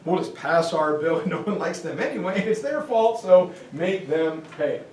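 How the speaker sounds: lightly voiced British gent, breezy; a hint of a jolly British chap; mock British accent. British passing their debt to Germany, in a light British accent. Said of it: "So the British say".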